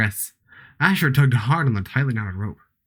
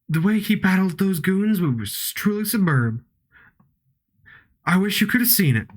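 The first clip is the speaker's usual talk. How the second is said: slightly higher, lightly put-on cowboy accent; 5 semitones higher than usual. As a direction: read it with a hint of cowboy accent. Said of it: "everyone eventually gets a br-, uh, cowboy accent".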